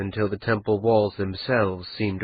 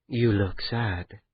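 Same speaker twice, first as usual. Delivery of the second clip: slow, soft and gentle; a wife softly reading her husband's face; tender concern; 5 dB quieter, slower than usual. Acted. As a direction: ease into it with quiet care. Kian gently noticing his mood.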